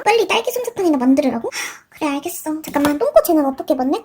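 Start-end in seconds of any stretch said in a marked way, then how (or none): 1.5-2.6 soft breathy resigned give-in; resigned sigh. Acted. Shop owner giving in to her rude friend, soft resigned sigh.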